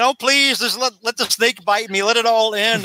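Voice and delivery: high, hammed-up begging to end it all; dramatic self-pity. Scientist begs the snake to bite him, high mock despair. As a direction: overplay the despair, then sink at the end. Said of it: "he's so dramatic".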